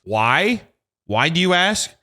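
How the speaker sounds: worked-up rhetorical rant; mock heated. Customer explaining himself to technician Todd, mock heated. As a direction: pitch up the question, then justify it. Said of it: "I know I'm getting heated".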